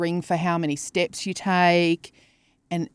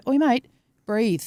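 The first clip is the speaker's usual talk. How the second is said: watch voice; 4 semitones higher, slower than usual. Retold or imitated. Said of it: "it'll go".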